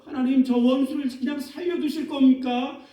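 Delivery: a lightly acted, rising complaint; indignant question to God. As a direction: ask God why the enemy lives. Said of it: "다윗이 하나님을 향해서 이렇게 얘기합니다".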